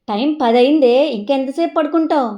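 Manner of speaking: loud impatient mum; scolding mother. Acted. Mother scolding the daughter still in bed, loud. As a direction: raise your voice at a lazy daughter.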